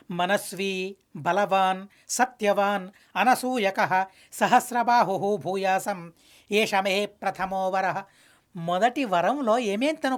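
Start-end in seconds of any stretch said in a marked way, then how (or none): 0.1-8.0 slow, measured Sanskrit chant; unhurried scriptural recitation; shloka recitation. Acted. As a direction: intone each word of the verse slowly.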